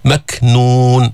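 ك in مكنون stopped, then released with breath; shidda and hams. Shown as a demonstration. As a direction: chant مكنون, closing on ك then letting air out. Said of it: "شدة وهمس". (شدة وهمس على كاف مكنون)

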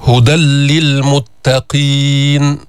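"هدى للمتقين" slow, nun of tanwin dropped into a doubled lam, "هُدَلِّلْمُتَّقِين"; recited with full assimilation. Shown as a demonstration. Teacher to students: show "هدى للمتقين" with a doubled lam, no nun. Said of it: "تسمع لاما مشددة".

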